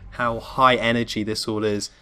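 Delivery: hoarse voice from a cold; sick voice. Real, not acted. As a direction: talk with a sore, ill voice. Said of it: "by my, like, sick voice".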